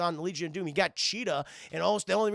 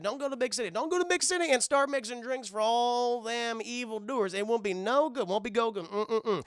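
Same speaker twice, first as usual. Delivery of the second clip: a lightly voiced warning daddy, a bit higher; daddy's warning; 5 semitones higher than usual. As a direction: play the fretting father, only lightly put on. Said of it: "Daddy said".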